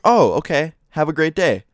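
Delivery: lightly acted customer-service voice; polite shop clerk. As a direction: send the customer off in a high, polite voice. Shop clerk's friendly send-off, acted.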